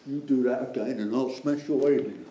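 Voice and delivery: mock-tough South East London accent with a laugh. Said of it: "That's my South East London accent".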